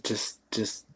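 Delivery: soft whisper to settle them; hushed whisper. Retold or imitated. Uncle hushing frightened kids in the tent. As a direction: hush the kids gently.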